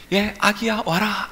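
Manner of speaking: high, gentle beckoning call; mother calling baby. Acted. Mother beckoning her baby across the drop, high calling voice. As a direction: coax a baby to come over.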